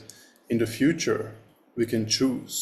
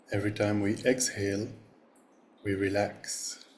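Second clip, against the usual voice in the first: measured meditation-teacher voice with long pauses; guided meditation. Real, not acted. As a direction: guide the group gently into breathing, pausing between phrases. Opens a guided meditation session.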